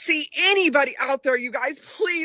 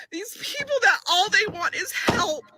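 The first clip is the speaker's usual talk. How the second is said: holding back a sob over the people; tearful; 5 semitones higher than usual. Real, not acted. A volunteer near tears over the people needing help. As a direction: voice cracking with tears.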